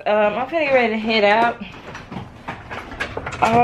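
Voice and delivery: ordinary delivery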